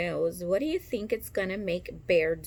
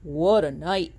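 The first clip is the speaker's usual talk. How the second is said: lightly voiced mole, pitched lower; a hint of a low muttering mole; 4 semitones lower, 4 dB louder than usual. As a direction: mutter it like a grumpy little mole. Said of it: "Mole mutters".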